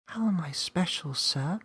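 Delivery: wide-eyed disbelief; young Millie amazed she is special; surprised little girl. Acted. Millie asks voice.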